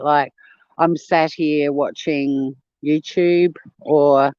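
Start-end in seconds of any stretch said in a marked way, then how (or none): 0.8-3.5 "I'm sat here" said slowly, mock English; imitating the English "sat" for a viewer; British "sat". Shown as a demonstration. Explaining British slang to chat, slow mock-English "sat". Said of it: "there's a way you use the word sat".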